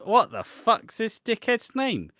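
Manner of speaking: high, loud incredulous question; baffled outburst. Retold or imitated. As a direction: blurt it out in mock outrage. Acting out baffled first reaction.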